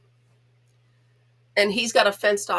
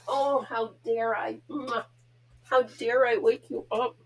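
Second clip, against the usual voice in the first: mock apology to dog; 2 semitones higher, slower than usual. Real, not acted. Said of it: "I know I'm a goof with him".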